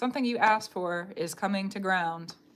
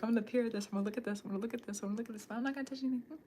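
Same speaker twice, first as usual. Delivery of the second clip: careful tiptoer; 3 semitones higher, 5 dB quieter, much faster than usual. Acted. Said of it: "trying not to touch anything kind of energy".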